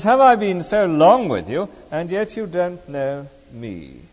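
a gentle rebuke, eased down at the end. Shown as a demonstration. Preacher voicing Jesus, gently answering Philip. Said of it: "He says".

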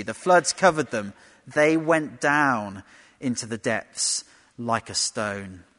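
slow, weighty reading of the song of Moses; scripture reading. Acted. Preacher reading Exodus to listeners hunting allusions, slow and weighty. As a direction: let each image land, slowly.

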